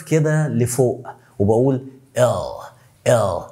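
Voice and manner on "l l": L with the tongue curled back, not out; dark L. Shown as a demonstration. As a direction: curl the tongue up for the L. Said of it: "لساني مش طالع لبره".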